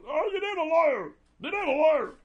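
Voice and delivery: Bruce Williams impression. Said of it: "He goes".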